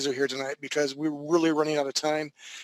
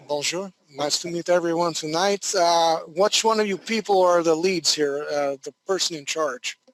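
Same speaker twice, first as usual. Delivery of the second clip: bad French accent. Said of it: "It's a bad French accent, but I'm trying".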